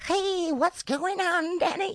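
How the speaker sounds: very high, slow squeaky elf voice; Santa's elf. Acted. Greeting Danny as Santa's elf, high elf voice. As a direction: pitch it way up like a chirpy little elf. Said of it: "like Santa's elf".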